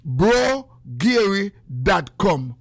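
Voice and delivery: slow, stretched site name call; stretched-out website plug; drawn-out plug. Real, not acted. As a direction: announce the website slowly, like a jingle. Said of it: "drawn-out site name call".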